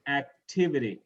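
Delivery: Activity with the weight on "tiv"; acTIVity, clearly stressed. Shown as a demonstration. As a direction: model Activity, stressing the syllable before "ity". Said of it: "Stress the syllable right before".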